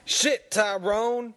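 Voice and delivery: excited shout. Real, not acted. Exclaimed name.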